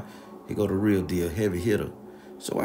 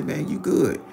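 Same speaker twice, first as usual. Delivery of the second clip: high loud reassurance; 10 semitones higher, 4 dB louder than usual. Retold or imitated. Reassuring Ralph loudly.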